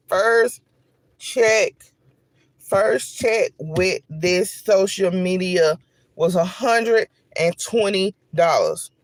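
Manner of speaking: slow, halting, choked-up; 천천히 감정을 참으며; holding back tears. Real, not acted. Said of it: "trying not to get emotional".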